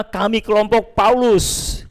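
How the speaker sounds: lightly acted group of loyal followers; Paul's faction. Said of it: "Ada kelompok yang menamakan dirinya".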